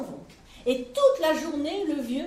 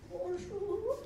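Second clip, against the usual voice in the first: vieille dame chevrotante; 7 semitones higher, 7 dB quieter than usual. Acted. La très vieille dame parle.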